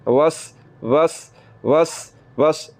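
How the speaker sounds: وس with a hissing, whistling s; whistling seen. Shown as a demonstration. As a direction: make the s in وس whistle. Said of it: "سیٹی کی آواز نکالتے ہوئے".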